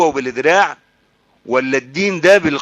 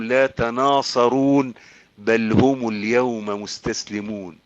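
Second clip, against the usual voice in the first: slow Quran recitation; 3 semitones lower, slower than usual. Acted. Preacher reciting the Judgement Day verses, slow recitation. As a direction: stretch each verse, easing down to a hush.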